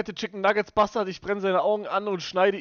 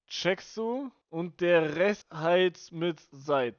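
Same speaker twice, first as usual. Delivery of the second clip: teaching a mnemonic; much slower than usual. Shown as a demonstration. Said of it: "Merk dir diese Eselsbrücke".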